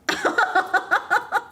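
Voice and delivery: high staccato laughter; incredulous laugh. Real, not acted. Laughing at the condom complaint, incredulous. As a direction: break into high, helpless laughter. Laughs at absurd retold exchange.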